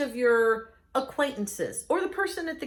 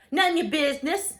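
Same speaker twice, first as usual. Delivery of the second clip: sassy retort; 2 semitones higher than usual. Real, not acted. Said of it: "sassy retort".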